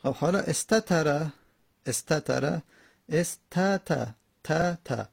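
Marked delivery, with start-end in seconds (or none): 3.1-5.1 استت broken up as "es, ta, ta"; syllables picked apart. Shown as a demonstration. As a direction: separate each ت syllable as "ta", with small gaps. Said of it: "دو تا تا در کنار همه".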